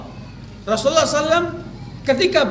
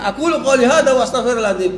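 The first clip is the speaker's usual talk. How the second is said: louder, a hint of a preacher's formula, "astaghfirullahadzim" stretched out; mock sermon closing; 3 dB louder, faster than usual. Preacher mimicking the wife like a sermon. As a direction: ham it up like a Friday preacher signing off, lightly amused. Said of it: "Kayak orang khutbah".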